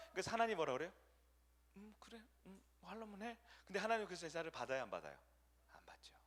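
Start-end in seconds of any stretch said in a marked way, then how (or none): 1.8-3.4 much softer, indifferent; resigned shrug. Pretend. God giving up on stubborn Saul, soft and dismissive. 5.7-6.1 hushed, breathy aside; whisper. Real, not acted. Preacher dropping to a whisper before David's example.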